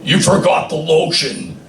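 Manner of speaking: a hint of a creepy killer; lightly voiced creepy captor, rising on the second line; half-hearted creepy movie voice; creepy movie quote. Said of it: "I had to do the movie quote".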